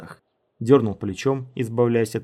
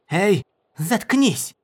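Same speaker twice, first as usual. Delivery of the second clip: sharp, drawn-out high bark; high-pitched irritated shut-up; barked order; 9 semitones higher, 4 dB louder, much slower than usual. A narrator's reading. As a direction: bark it high and slow, cutting them off. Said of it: "рявкнула женщина".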